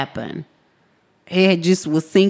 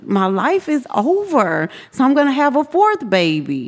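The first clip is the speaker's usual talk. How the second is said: retold despair; 7 semitones higher than usual. Retold despair at fourth baby.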